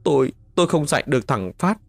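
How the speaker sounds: tearful, stammered confession; anguished, hurried apology; sobbing. A narrator's reading. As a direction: plead through acted sobs, pitch climbing. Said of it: "Bà Hạnh nức nở".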